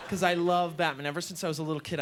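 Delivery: ordinary talk, nothing marked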